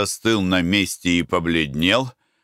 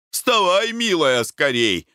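excited exclamation; 9 semitones higher, slower than usual. A narrator's reading. Husband urges sleepy wife to get up, excited and high. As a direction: hurry her out of bed with a jump in pitch. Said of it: "воскликнул Николай Иванович".

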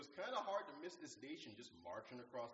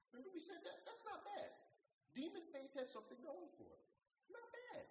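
laughing. Real, not acted.

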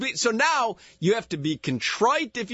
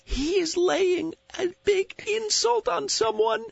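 nature documentary; 11 semitones higher than usual. Pretend. Mock wildlife narration of cohost.

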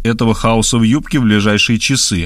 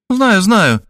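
interrupting Markhaleva; 9 semitones higher than usual. A narrator's reading. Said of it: "перебила она".

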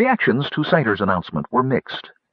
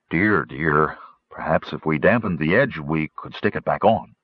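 a lightly voiced low, fretting gnome; fussy gnome; 4 semitones lower than usual. Rainspot suggests gluing the beard back, lightly voiced low and fretting. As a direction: mutter a worried fix-it idea.

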